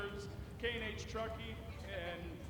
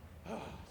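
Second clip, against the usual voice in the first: heavy breath out; 6 dB quieter than usual. Real, not acted. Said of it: "I'm out of breath".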